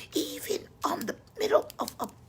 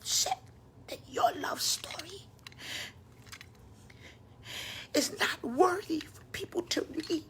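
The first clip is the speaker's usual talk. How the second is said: softer, breathy whispered sermon lines; hushed preaching; 4 dB quieter than usual. Acted. Preacher confiding to the congregation, whispered. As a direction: pull the room in close with a whisper.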